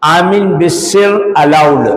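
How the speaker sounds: slow, measured pronouncement, lightly voiced; judge's ruling. Preacher retells the colonial judge's verdict, slow and measured. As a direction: read it out like a British judge's verdict, slowly. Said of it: "अब जज सुना रहा फैसला".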